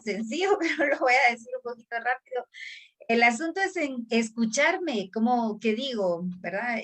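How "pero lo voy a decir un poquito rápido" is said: rushed and fast, words tumbling out; said quickly. Real, not acted. Speaker announcing she will talk fast, rushed delivery. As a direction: speed through it as promised. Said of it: "lo voy a decir muy rápido".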